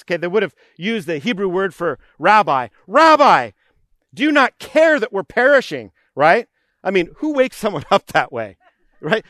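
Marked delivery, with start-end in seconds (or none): 2.9-5.9 preacher voicing a frightened disciple's yell, higher and louder; retold panicked shout. Disciples waking Jesus in the storm, mock shout. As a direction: cry out the rebuke like a scared fisherman. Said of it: "the disciples shouted at Jesus".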